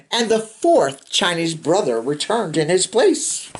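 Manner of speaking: put-on steady read-aloud narration for kids; storybook reading. A narrator's reading. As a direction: read it like a bedtime picture book. Reading picture book to children.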